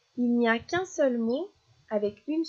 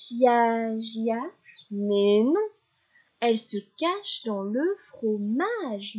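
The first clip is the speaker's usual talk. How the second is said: nursery rhyme recitation; slower than usual. Shown as a demonstration. Teacher reciting a last rhyme for a child, rhythmic, with echoes. Une dernière.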